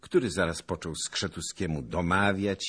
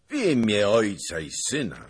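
loud, higher-pitched exclamation; raised voice of amazement; astonished cry; 5 semitones higher, 7 dB louder than usual. A narrator's reading. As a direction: cry out as if seeing the dead. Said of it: "zawołał pan Zagloba".

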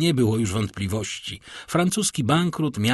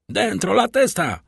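higher and louder, a menacing repeated order; threatening shout; 10 semitones higher, 4 dB louder than usual. A narrator's reading. The guard repeats his order to Danglars, a higher, louder menacing shout. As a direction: yell the warning again, harder. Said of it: "powtórzył tenże głos z taką samą groźbą".

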